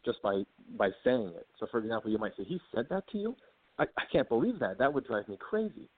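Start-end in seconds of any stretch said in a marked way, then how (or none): 2.4-5.9 "He said that to you?" jumps much higher in shocked sympathy; outraged disbelief. Shown as a demonstration. Showing how to answer an upset friend, indignant disbelief. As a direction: sound indignant on your friend's behalf.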